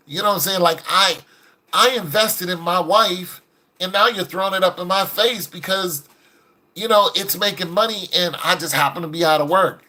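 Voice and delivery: indignant husband making his case, lightly acted; mad husband. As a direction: argue back like a fed-up husband, mildly. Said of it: "till finally he got mad".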